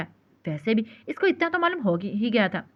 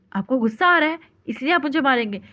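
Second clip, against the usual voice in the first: fearful; 4 semitones higher, 3 dB louder than usual. A narrator's reading. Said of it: "खौफ से बोली".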